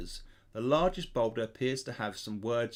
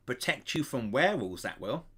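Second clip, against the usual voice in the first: proud. Acted. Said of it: "he says very proudly".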